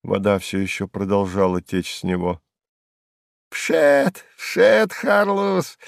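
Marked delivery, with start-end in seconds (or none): 3.5-5.8 high, mocking squeal; high jeering squeak of a hanger-on; squeaky mocking jester. A narrator's reading. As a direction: squeal it out, doubled up with laughter. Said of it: "пищал Сувенир".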